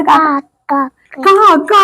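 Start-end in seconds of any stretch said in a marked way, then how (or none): 1.3-1.7 high imitated cawing; crow call. Shown as a demonstration. Showing a toddler how a crow cries, cawing. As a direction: caw like a crow. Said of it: "കാക്കച്ച എങ്ങനെ കരയുന്നേ".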